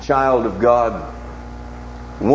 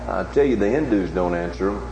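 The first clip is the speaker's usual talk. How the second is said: ordinary delivery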